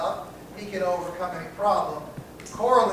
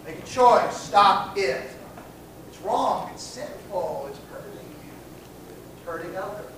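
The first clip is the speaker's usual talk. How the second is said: moralizing pastor. Shown as a demonstration. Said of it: "Come on, you're a Christian".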